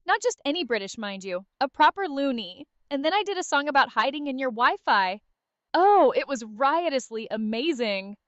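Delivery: a British loony recapping with manic glee; lightly done mad British persona; delirious British Arya. Pretend. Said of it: "British Arya's tone, but with an added layer of delirious glee".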